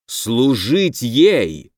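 slow, drawn-out mild bark; a touch of an angry snap, very slow; half-orc growls in outrage, mildly. Acted. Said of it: "рявкнул полуорк".

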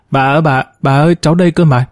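put-on mild narrated cry of a child, quickening and rising; a little girl calling urgently to her grandmother, lightly voiced. Child calling out to her grandmother in the hospital, a mild rising fast cry. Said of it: "Bỗng bé Ngọc hét toáng lên".

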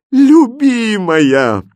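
high, loud, slow, drawn-out cry of joy; rapturous exclamation. Acted. King answering her consent, rapturous exclamation. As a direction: pour all his delight into one word. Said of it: "восторженно воскликнул король".

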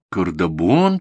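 "Кардабон?" asked back with a puzzled rising tune; boy doubting grandma's city name; asking back. Acted. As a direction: question the odd word "Кардабон?". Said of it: "переспросил мальчик".

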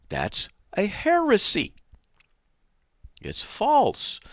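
fiery preacher condemning salvation by works; preaching at full force. Real, not acted. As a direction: thunder it from the pulpit.

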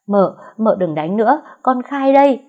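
a beaten servant gives up and begs; begging surrender. Acted. Servant begs the mistress to stop beating, loud plea. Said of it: "giơ tay xin hàng".

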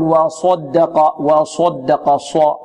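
"وصدق" with lips pursed on saad, like "swad"; rounded-lip saad. Retold or imitated. Teacher showing students the error, saad with pursed lips. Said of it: "نحذر من ضم الشفتين".

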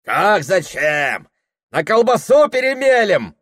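robbers jeering at the peasant; gang shouting. Acted. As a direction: bandits mocking the peasant, loud and high. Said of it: "закричала ватага".

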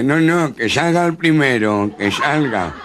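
high, loud, slow panicked nasal plea; frightened plea. Acted. Jorobado gangoso aterrado. (súplica asustada y gangosa)

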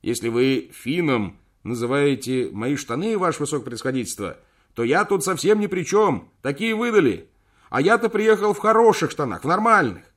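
high, loud protest; loud indignant. Acted. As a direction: shout an indignant excuse. Shouting excuse into horn.

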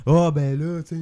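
lightly mimicked evasive interviewee; Dernay. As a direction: imitate an awkward answer to a reporter. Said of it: "Puis là, il était là". (imitation légère d'un joueur embarrassé en entrevue)

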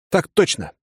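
firm, crisp "Так точно!"; unshakeable reply. A narrator's reading. Young soldier answering the colonel, firm "Так точно!". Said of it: "непоколебимо бросил".

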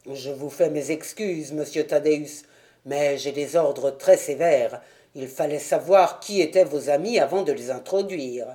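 low, lightly voiced gatekeeper; understated dutiful servant; apologetic doorman.

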